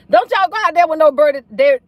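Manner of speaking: giggling through Don't y'all go out there; laughing. Real, not acted. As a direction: repeat the warning while cracking up. Repeat of warning with laugh.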